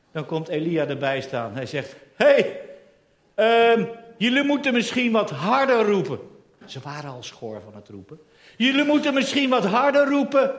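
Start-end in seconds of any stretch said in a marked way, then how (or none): 2.1-6.2 mocking taunt. Elia mocking the priests of Baal, teasing and raised. 8.6-10.5 mocking. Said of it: "Elia spot met Baal".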